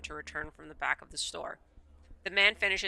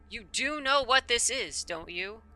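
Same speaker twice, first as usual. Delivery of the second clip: knowing, teasing; 5 semitones higher, slower than usual. Acted. Shopkeeper holds back bottle.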